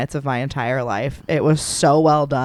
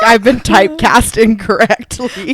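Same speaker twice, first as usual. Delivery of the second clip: loud high indignant wail; indignant shout; 6 semitones higher, 7 dB louder than usual. Retold or imitated. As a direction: protest loudly through laughter. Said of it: "You're like".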